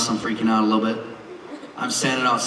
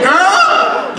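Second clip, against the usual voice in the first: put-on high squealing "Girl!"; high-pitched mock shriek; 6 dB louder than usual. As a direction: shriek it like a giddy teen. Dad mocks daughter's exclamation.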